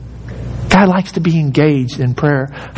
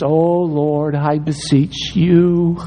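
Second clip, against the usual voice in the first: slow, pompous prayer voice; mock lofty prayer; 2 semitones lower, slower than usual. Mocking a refined prayer to God, hammed-up. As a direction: ham up a stuffy formal prayer.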